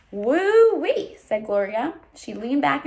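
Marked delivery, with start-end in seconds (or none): 0.1-1.2 woo-wee. Acted. Gloria exclaims at page count.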